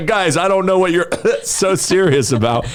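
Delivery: hammed-up sick act between coughs; pretend coughing fit. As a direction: splutter through it, badly faking illness. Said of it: "pretending to be like".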